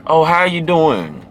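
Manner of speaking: slow, smooth greeting; seductive greeting. Shown as a demonstration. Greeting a woman, slow and seductive. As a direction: draw it out slow to charm her. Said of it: "Be very seductive with a woman".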